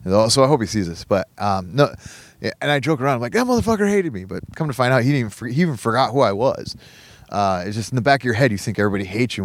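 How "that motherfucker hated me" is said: mock outrage. Joking about the master-at-arms.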